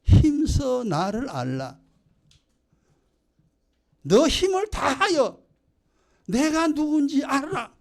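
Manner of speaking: slow, rising divine command, lightly voiced; God commanding people to know him. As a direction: lay it down slowly as God's word. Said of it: "하나님은".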